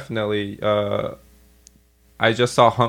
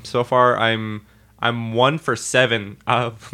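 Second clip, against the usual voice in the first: ordinary talk, nothing marked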